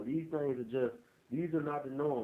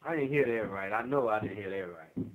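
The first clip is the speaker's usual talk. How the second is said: emphatic disbelief, falling at the end; stunned disbelief; 4 dB louder than usual. Real, not acted. Interviewer reacting to a shocking sentence, incredulous. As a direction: refuse to believe your own ears.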